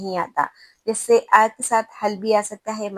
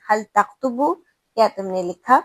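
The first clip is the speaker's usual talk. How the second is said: calm, slow, easy question; calm asking. Shown as a demonstration. Teacher calmly asking a student if he wrote, slowly. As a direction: ask it gently and slowly, just wanting the answer. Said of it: "آپ کسی طالب علم سے آرام سے پوچھ رہے ہیں".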